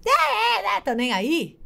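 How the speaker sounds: put-on a high, careless child brushing it off. Imitating an indifferent child who bit a friend, high and careless. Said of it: "a criança faz ... tá nem aí".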